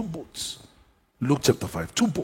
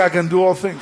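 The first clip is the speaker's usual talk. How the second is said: louder, shouted; louder declaration; 5 semitones higher, 5 dB louder than usual. Shown as a demonstration. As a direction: shout it out with conviction. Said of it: "Come on, say".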